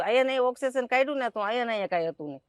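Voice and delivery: rattled off fast in alarm; a retold plea tumbling out fast; rushed urgent plea. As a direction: hurry through it, pleading with the doctor.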